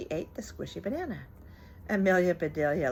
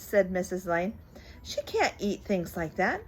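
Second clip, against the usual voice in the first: put-on reading to children. A narrator's reading. Reads picture book aloud.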